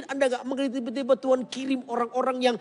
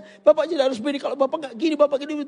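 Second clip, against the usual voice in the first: louder, insistent counselling; firm advice; 5 semitones higher, 4 dB louder, faster than usual. Retold or imitated. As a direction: urge it as if to himself. Advising the caller firmly. (nasihat keras penuh desakan)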